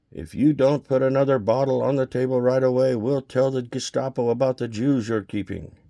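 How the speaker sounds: bully her into bringing a bottle; drunken threat. Acted. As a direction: guest menacing the janitor over vodka. Drunk guests threatening the janitor.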